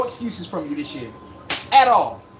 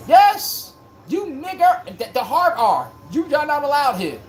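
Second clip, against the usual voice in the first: mock hostile fans; 5 semitones higher, slower than usual. Imitating old Boston fans.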